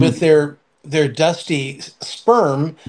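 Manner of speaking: laughing through a slowed joke. Real, not acted. Mocking old fathers to a friend, laughing slowly. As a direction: let the laugh break into the words, slowly. Joking about old men's dusty sperm.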